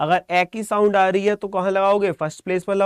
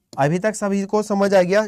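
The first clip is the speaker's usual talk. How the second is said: slower, drawn-out repeat of the question; slow repeated check. Real, not acted. Teacher re-asks the class if all understood, slowly. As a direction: ask it again, slowly and deliberately. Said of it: "ये बताओ अभी तक सभी को समझ आ गया?".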